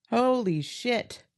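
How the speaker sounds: slow stunned. Real, not acted. Overwhelmed by her answer.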